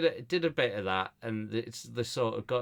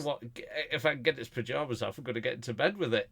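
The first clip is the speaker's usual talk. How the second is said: quick clean retelling; 3 semitones higher, faster than usual. Retold or imitated. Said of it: "Yeah, I said".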